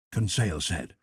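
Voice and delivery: usual speaking voice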